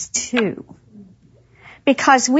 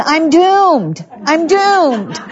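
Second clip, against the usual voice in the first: higher-pitched comic despair; mock dismay; 5 semitones higher, much slower than usual. Daughter seeing her mom talk to herself, comic dismay. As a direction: wail it lightly, as a hammed-up realisation.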